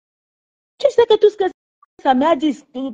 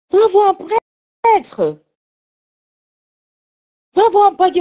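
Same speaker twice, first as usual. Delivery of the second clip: slow, deliberate, higher; slow urging; 5 semitones higher, slower than usual. Real, not acted. Mother slowly urges daughter to see a priest. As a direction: spell it out slowly.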